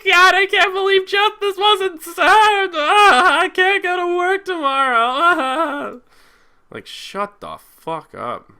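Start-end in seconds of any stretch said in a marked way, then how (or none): 0.0-5.9 high, loud, whiny wailing mockery; mocking crybaby. Mocking the crying protesters in a whiny wail. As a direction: wail like a fake-sobbing mourner, much higher and louder. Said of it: "It's like".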